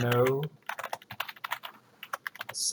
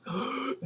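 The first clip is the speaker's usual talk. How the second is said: mock gasp for breath; 11 semitones higher, 5 dB quieter than usual. Shown as a demonstration. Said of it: "have to take a breath".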